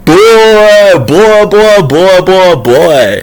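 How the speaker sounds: high, loud repeated cries, falling away; acted overwhelmed reaction. Vlogger acting out being hit by information, overwhelmed. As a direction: start high and let each one drop.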